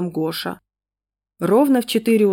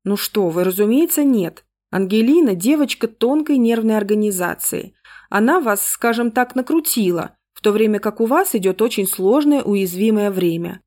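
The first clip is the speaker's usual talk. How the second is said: dry businesslike tone; 2 semitones higher than usual. Acted. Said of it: "ответила сухим деловитым тоном".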